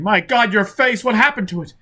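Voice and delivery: high, shocked and frightened; horrified. A narrator's reading. Prisoner seeing Foyle's tattooed face, horrified. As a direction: gasp it out in horror.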